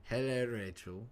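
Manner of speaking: slow, lightly camp hello; camp greeting. Shown as a demonstration. Streamer greeting viewer Rachel as accused, slow camp voice. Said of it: "Your voice goes somewhat camp".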